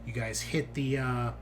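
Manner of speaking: measured tabletop narration with dramatic pauses; game master's scene setting. Acted. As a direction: unfold the drop for the players, phrase by phrase.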